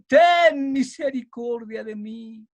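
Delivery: slow, drawn-out plea; clamor suplicante. Shown as a demonstration. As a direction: plead slowly for mercy. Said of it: "le dice". (súplica lenta y clamorosa)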